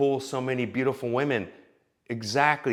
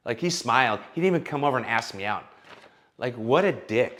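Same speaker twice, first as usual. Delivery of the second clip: hammed-up indignant TikTok woman, a touch higher; mocking a woman ranting to her ladies on TikTok, higher and louder; 5 semitones higher, 4 dB louder than usual. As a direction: play an outraged influencer addressing her followers. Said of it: "Then she'll go on to TikTok".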